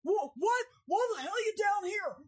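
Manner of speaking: high, exasperated mock-angry dad. Dad finding his daughter stuck downhill, mock-angry scolding. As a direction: scold her like a fed-up father.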